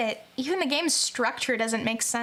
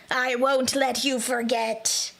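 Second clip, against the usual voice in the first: strained ghost voice; slower than usual. Acted. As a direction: push a menacing rasp from the throat. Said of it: "That hurts my throat".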